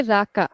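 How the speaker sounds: both syllables of raka evenly weighted; equal stress on raka. Shown as a demonstration. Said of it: "we put equal stress".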